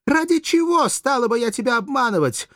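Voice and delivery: high-pitched, vehement reproach; impassioned outcry; indignant protest. A narrator's reading. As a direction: demand it as if deeply wronged.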